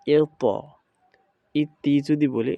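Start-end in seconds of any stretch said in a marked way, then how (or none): 0.1-0.4 এত higher and louder, with a heavy echoed t; upward articulation. Shown as a demonstration. Teacher models the correct sound, heavy upward bounce. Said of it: "উচ্চারণটা আমাদের উপরের দিক চলে যাবে". 1.6-1.9 ইতি with the t released into a thin i; wrong pronunciation. Shown as a demonstration. Teacher shows students the mistake, ইতি with added i. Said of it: "এটা ভুল হবে".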